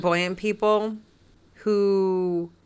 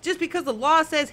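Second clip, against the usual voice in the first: irritated retort, pitched up; aggravated; 5 semitones higher than usual. Real, not acted. Arguing that rights change nothing, aggravated and high-pitched. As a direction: hit back in real exasperation, higher voice. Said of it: "I'm getting so aggravated".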